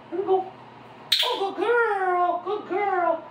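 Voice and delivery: high, bright cheerful praise; upbeat happy praise. Real, not acted. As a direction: cheer her on like a happy fan. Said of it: "nice, happy, upbeat".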